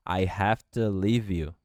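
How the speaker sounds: "have to" said "hafta"; "I have to leave you" with "hafta"; contracted hafta. Shown as a demonstration. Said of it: "Você pode contrair também have to".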